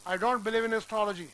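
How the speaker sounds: slow, astrology said as stology; no A sound. Shown as a demonstration. Teacher repeating the sentence to prove the point. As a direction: model it slowly, drop the A. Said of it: "मैं नहीं बोल रहा है".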